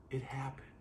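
breathy whispered awe. Shown as a demonstration. Preacher whispers the wonder to the congregation, hushed. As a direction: let it drop to a whisper. Repeated line, now hushed.

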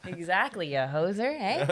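put-on playful stock-Canadian accent. Guest playing along with teasing, mock Canadian accent. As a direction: ham up the Canadian "eh". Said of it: "my Canadian accent".

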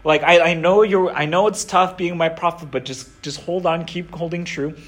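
soft, understated reassurance; reassuring. Retold or imitated. God comforting his worn-out prophet in the desert, softly reassuring. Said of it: "he reassures them and says".

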